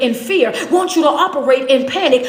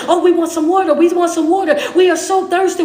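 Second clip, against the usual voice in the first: mock crying people; 3 semitones higher, 5 dB louder than usual. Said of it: "they're crying".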